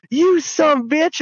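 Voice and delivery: high, snarling mock yell; angry outburst. Robbed miner turning on Arthur, high angry mock yell. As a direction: spit it out like a furious outlaw.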